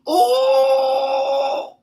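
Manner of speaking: high startled shout at the card; shocked cry. Real, not acted. Tarot reader yelps at the first card, shocked cry. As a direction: yelp out in shock.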